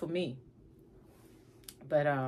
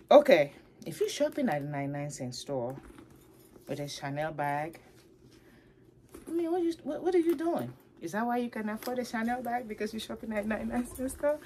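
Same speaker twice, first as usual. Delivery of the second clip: incredulous rant; 4 semitones higher, 3 dB louder, faster than usual. Retold or imitated. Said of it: "I'm like".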